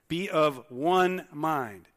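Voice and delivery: "Be of one mind" spaced out word by word; slow, deliberate. Shown as a demonstration. Pastor re-reading the verse for emphasis, slow and deliberate. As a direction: draw out each word of "Be of one mind" slowly. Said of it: "So he starts out here".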